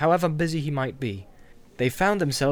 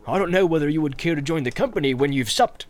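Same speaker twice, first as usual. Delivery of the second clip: bustling innkeeper. Acted. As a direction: greet the guest heartily. Landlord at the door.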